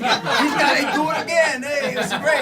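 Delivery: loud, high mock enthusiasm; mock excited thought. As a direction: ham up an excited inner voice. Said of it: "I'm not thinking".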